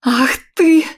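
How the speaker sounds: high loud furious cry; loud enraged outburst; furious shout. Acted. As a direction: scream with rage. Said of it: "закричала я".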